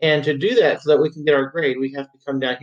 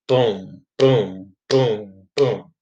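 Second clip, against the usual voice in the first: beat pulse; 4 semitones lower, much slower than usual. Shown as a demonstration. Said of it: "looking for that beat to stay steady".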